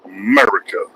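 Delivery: America. sung out high with a rising end; rising call. Acted. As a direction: lift America. up high and let it rise at the end. Calls out America, then repeats.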